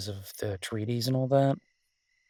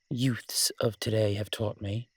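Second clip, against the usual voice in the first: hushed conspiratorial aside; slow teasing whisper; mock whisper. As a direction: lean in and whisper it like a secret. Playful aside about kids' slang.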